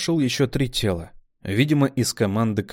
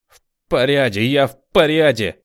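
loud, higher insistence; insisting; 5 semitones higher, 7 dB louder than usual. A narrator's reading. Wounded brunette insisting to commander, loud. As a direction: shout that she's fine.

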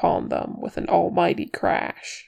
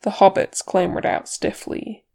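ordinary delivery

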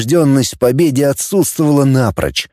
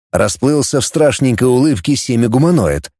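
plain reading voice

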